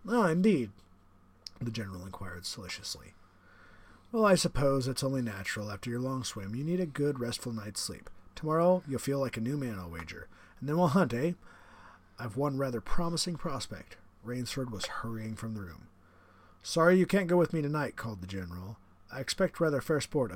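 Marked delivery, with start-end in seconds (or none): 0.1-0.7 higher, louder, smug aristocratic villain; the general, menacing. Acted. General speaks, character voice. 4.1-14.0 the general, menacing. Acted. General speaks, character voice. 16.6-18.0 higher, louder, smug aristocratic villain; the general, menacing. Acted. General calls out.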